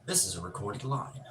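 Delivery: high hello, then a recorded-line voice; prank phone answer. Retold or imitated. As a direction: lightly mimic an automated phone message. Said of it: "I mess with 'em hard".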